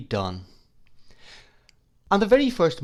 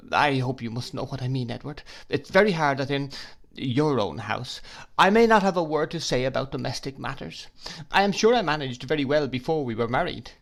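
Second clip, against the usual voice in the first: pleading; 3 semitones higher than usual. Acted. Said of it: "faltered my mother".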